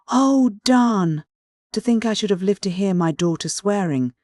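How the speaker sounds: high, loud, tearful wail; sobbing. A narrator's reading. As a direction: cry out in dismay. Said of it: "sobbed Missus Frederick".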